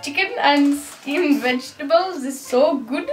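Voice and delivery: put-on Welsh accent that slips towards Indian; attempted Welsh accent. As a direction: try and botch a Welsh accent. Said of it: "it's Welsh".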